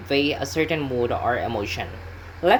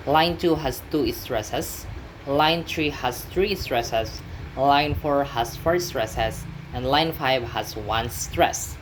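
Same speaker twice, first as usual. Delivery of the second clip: slow listing; slower than usual. Shown as a demonstration. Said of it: "Each line is stressed in a specific way".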